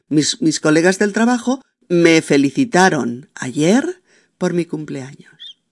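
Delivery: one unbroken phrase, no pause; continuous rising tune. Shown as a demonstration. Teacher reading the sentence without the comma. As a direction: rise on trabajo and flow straight into me felicitaron. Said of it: "Ahí no va ninguna coma".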